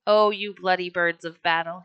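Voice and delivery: a rough, rousing call to his men; mild boisterous exclamation; hearty cry. A narrator's reading. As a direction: cry it out with pride. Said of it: "he cried".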